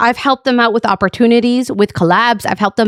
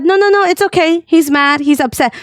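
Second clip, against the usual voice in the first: higher-pitched placating voice; retold patience; 5 semitones higher than usual. Friend calming the streamer during a quarrel, retold patient soothing. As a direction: quickly soothe and excuse an upset friend. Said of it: "She was being so patient with him".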